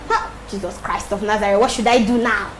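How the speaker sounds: low, hushed appeal to heaven; muttering to herself. Real, not acted. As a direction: think aloud softly, dropping low. Muttered appeal to herself while waiting.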